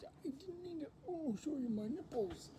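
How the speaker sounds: high, soft flustered apology; a hushed, mortified apology; embarrassed. Real, not acted. Apologizing to viewers for a wardrobe slip, soft and flustered.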